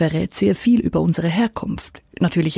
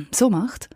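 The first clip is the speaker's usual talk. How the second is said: throat clearing; 4 semitones higher than usual. Shown as a demonstration. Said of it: "sich ständig räuspert".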